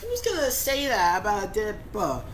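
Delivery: high, loud indignant shouting; outraged yelling. Real, not acted. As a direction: yell it in disbelief. Outraged at story line.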